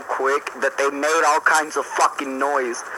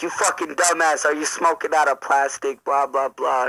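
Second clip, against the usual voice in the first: raised-pitch imitation of a mom's rant; mock scolding mom; 3 semitones higher than usual. Mom berating son over the bong, mock scolding. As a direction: scold like an exasperated mom, then let it settle. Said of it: "she went off on this big ol' rant".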